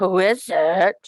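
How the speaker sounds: rough-throated, gruff wolf call. Reading Little Red Riding Hood, voicing the one calling out from inside the cottage: rough, gruff voice. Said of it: "surprised to hear a rough, gruff voice call out".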